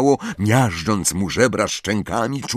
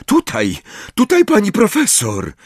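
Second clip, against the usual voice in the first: much higher, raised call; 12 semitones higher, 3 dB louder than usual. Acted. Neville calling Professor McGonagall to the bed, urgent. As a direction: call her over urgently.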